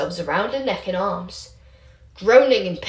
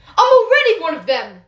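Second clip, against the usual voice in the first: higher, louder furious outburst; angry shout; 9 semitones higher, 8 dB louder than usual. Acted. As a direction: shout it back in his face. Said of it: "Remus shouted".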